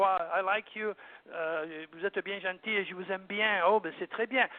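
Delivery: gentle French sweet talk; light, loving French. Shown as a demonstration. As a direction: say it lightly, as tender French flirting. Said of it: "the sound of French is light and is love".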